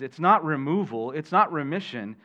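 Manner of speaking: "not" leaned on hard and falling; teacher's contrast landing on "not"; stress on not. Shown as a demonstration. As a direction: hit "not" in "It's not removal" and "It's not remission". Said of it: "It's a reminder".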